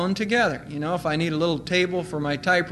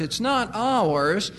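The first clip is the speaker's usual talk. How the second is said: slow emphatic; much slower than usual. Real, not acted. Preacher stresses ownership.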